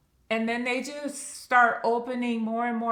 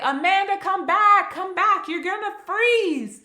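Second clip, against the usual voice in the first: loud, higher calling across a blizzard; louder, higher urgent call; 10 semitones higher, 8 dB louder than usual. Retold or imitated. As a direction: yell after her to come back. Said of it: "Jason's calling".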